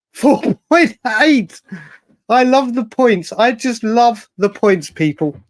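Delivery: high, delighted and tickled; enjoy the joke of it; amused. Real, not acted. Amused at decimal score.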